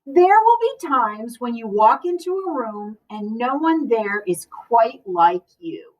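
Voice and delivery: gentle, even storybook reading; reading to children. Acted. Librarian reading a picture book to the class, gentle storytelling. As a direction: read it like story time for a class.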